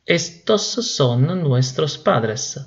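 very slow, careful model sentence; teacher dictating the right form very slowly; correct version, very slowly. Shown as a demonstration. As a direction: spell out estos son nuestros padres word by word. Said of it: "sino que es".

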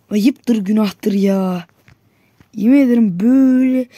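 loud, aggrieved protest at the referee; loud wounded protest; loud complaint. Real, not acted. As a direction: argue the call, wounded. Complaining about offside call.

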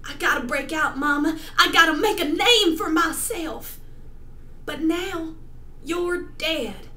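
loud, pleading melodrama; overacted grief for a dead mother; tragic heroine sorrow. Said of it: "performing a monologue for you".

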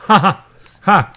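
a loud burst of real laughter at his own joke; short hearty laugh. Real, not acted. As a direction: laugh out loud, pleased with yourself.

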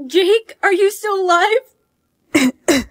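slow, anxious plea; horrified. Acted. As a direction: ask in breathless fear. Horrified gasp.

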